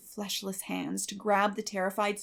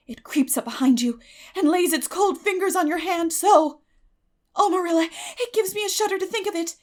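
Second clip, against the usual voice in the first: shuddering; 9 semitones higher, 8 dB louder than usual. A narrator's reading. Shuddering at ghost child.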